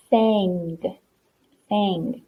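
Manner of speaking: "sang" with a nasal glued "ang"; nasal glued sound. Shown as a demonstration. Teacher reminds pupils of nasal sounds, saying "sang" nasally. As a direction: let the "ang" in "sang" ring through the nose. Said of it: "so that it sounds kinda nasally".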